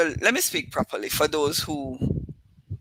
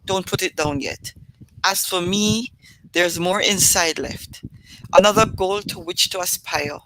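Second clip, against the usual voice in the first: measured, earnest poem reading; poem recital. Acted. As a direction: recite it like a spoken-word poem. Reads her own poem aloud.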